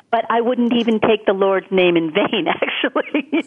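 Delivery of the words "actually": laughing. Real, not acted. Laughs at her own joke.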